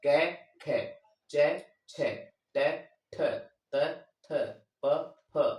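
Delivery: क, ख, च, छ, ट, ठ, त, थ, प, फ each said crisply, with a small pause between them; teacher pronouncing each letter clearly; consonant demo. Shown as a demonstration. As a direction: sound out each unvoiced letter separately. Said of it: "अघोष होगा।".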